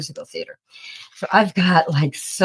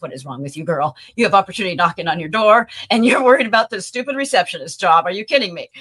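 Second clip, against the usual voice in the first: retold yelling; 4 dB louder, faster than usual. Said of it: "those bosses yelled at me".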